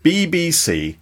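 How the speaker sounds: slow, lightly showy Queen's English. Shown as a demonstration. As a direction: show off top-tier British received pronunciation. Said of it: "what we call the Queen's English".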